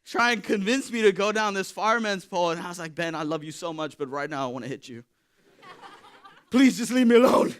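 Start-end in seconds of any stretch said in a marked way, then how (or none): 2.9-7.5 mock pleading. Telling friend to go away.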